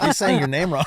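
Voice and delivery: laughing while speaking. Retold or imitated. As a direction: get the words out through a laugh. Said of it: "I was like".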